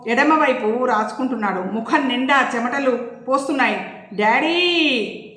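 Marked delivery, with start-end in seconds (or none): 4.1-5.3 long drawn-out worried cry of Daddy; anxious call. Acted. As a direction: call out to a father in alarm. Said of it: "ప్రీతి ఆదుర్దాగా వెళ్ళింది".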